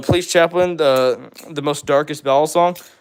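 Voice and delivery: ordinary delivery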